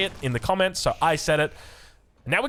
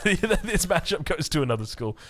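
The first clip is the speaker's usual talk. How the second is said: laughing. Real, not acted. Laughs while repeating his joke.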